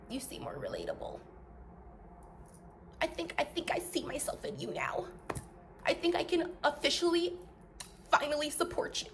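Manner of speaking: hushed, whispery fake-supportive voice; mock-tender, half-whispered confession; mocking fake sympathy. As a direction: imitate a follower softly coming round. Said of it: "Do y'all not know how that sounds".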